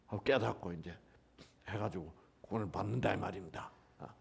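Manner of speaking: ordinary talk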